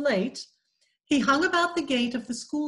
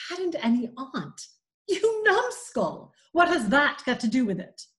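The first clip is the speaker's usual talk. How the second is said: incredulous, then a high sharp cry of numbskull; mock-scolding aunt, pitch jumping on numbskull; exasperated aunt; 3 semitones higher than usual. Aunt Polly rounding on Tom, exasperated scolding.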